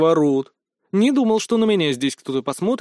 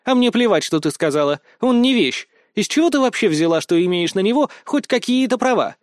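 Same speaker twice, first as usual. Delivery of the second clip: strict, reproachful retort; stern brunette putting a girl in her place; 6 semitones higher than usual. A narrator's reading. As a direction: scold her rival firmly. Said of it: "строго ответила".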